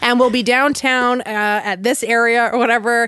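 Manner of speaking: lightly voiced priest on the mic; priest's announcement. Priest tells departing churchgoers about Saturday, imitated announcement. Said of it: "on the mic".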